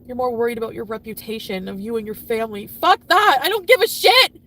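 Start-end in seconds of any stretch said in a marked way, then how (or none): 2.7-4.4 high, loud furious shout; real angry outburst. Real, not acted. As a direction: explode with anger, voice raised. Angry rant about partner's betrayal.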